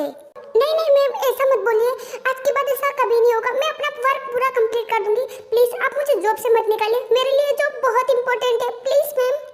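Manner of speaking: scared employee pleading with her boss, desperate. Acted. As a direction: beg the boss to keep your job. Employee begs not to be fired.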